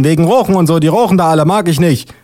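high-pitched refusal; high put-on policewoman voice; disapproving policewoman. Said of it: "ruft die Polizistin".

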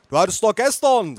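calling grandma. A narrator's reading. Grandma correcting birthday date, calling out. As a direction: call out a correction. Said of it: "rief meine Oma".

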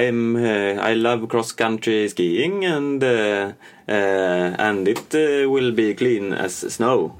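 put-on halting Norwegian-accented English, read from a script; bad Norwegian-skier English. Norwegian skier reads anti-doping statement from a script, halting accented English. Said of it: "läser innantill i manus".

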